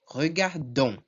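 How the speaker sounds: Regardons closing on one syllable, don; D joined to "on". Shown as a demonstration. Teacher shows syllable formation, Regardons ending in joined don. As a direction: link D and nasal on at the end of Regardons. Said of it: "o D forma sílaba com o on".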